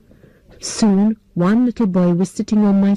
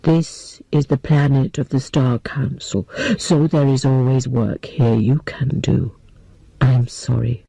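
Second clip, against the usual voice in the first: put-on a gentle old man apologizing; 7 semitones lower than usual.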